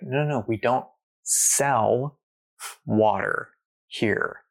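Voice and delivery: slow, drawn-out mild no; patient vendor. Retold or imitated. Vendor patiently refusing to sell water, slow and lightly voiced. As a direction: let the vendor spell it out slowly. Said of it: "He's like".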